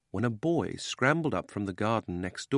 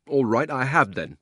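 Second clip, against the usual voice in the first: put-on loud, higher boyish outburst; much louder voice; 5 semitones higher, 7 dB louder than usual. Miserable boy admits crying, much louder defiant voice. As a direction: burst out, past caring who hears. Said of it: "in a much louder voice".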